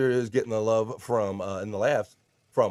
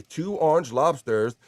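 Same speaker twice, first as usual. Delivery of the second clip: slow then higher, louder cry of alarm; hammed-up indignant hello; mock outrage; 4 semitones higher, 4 dB louder, slower than usual. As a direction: read it as a stunned victim. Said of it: "Pulper eighty".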